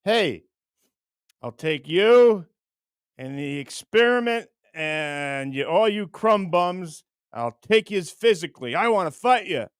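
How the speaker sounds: lightly voiced blustering challenger, drawn-out words; mock tough-guy fight challenge; Frank Rizzo. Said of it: "What if Rizzo goes".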